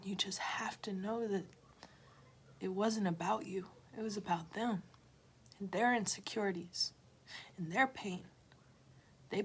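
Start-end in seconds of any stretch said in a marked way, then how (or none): 0.0-4.8 soft reassuring whisper. Real, not acted. Reassuring viewers who were hurt, a whisper. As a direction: lean in and whisper it.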